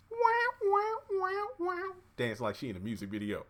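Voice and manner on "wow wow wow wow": very high, awed wows fading down; amazed. Real, not acted. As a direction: gasp it out in disbelief. Reacts to Madison walking.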